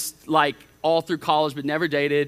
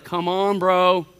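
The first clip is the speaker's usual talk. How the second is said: put-on impatient girl; 5 dB louder, slower than usual. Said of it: "sometimes you're like".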